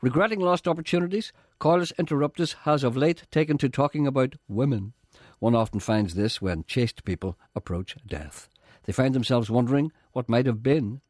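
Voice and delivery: deliberate, formal announcer read; scripted link read. Acted. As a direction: read it out like a solemn programme link. Reads a scripted programme link.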